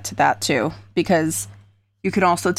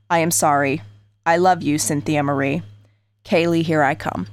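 letter read aloud. Acted. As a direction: read the note steadily and gravely. Reads suicide letter aloud.

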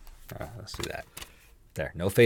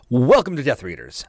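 podcast host intro; 3 semitones higher, 4 dB louder than usual. Shown as a demonstration. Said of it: "and you're like".

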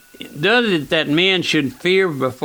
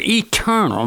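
"eternal" lifted higher in pitch; emphasis on eternal; 5 semitones higher than usual. Shown as a demonstration. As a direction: underline the word "eternal" with a raised pitch. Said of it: "let me underline that word".

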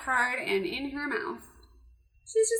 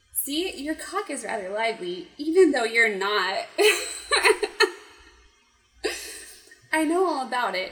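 reading through laughter; 5 dB louder than usual. Shown as a demonstration. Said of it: "voice acting lesson".

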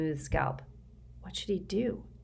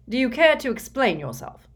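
cool; 8 semitones higher, 6 dB louder than usual. A narrator's reading. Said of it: "Mister Curtin said coolly".

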